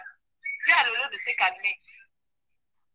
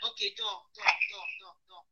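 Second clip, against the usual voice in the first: hushed soothing; 5 semitones lower, 12 dB quieter than usual. Real, not acted. Soothing someone to sleep.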